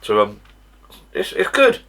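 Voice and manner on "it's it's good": excited. Real, not acted. Praising the cider after tasting.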